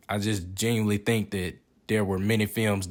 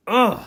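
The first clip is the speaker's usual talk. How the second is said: short, higher, louder groan of disgust; disgusted ugh; 9 semitones higher, 6 dB louder than usual. Real, not acted. Reviewer reacting to food thrown away, disgusted groan. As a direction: let out a pained "ugh".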